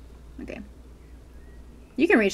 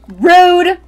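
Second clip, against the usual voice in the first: mock offended; 5 semitones higher, 19 dB louder than usual. Offended at NPC.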